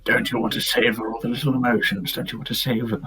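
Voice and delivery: lightly voiced Australian Joker, savouring; a touch of an Australian accent, mock-sinister. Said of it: "I made Joker an Australian".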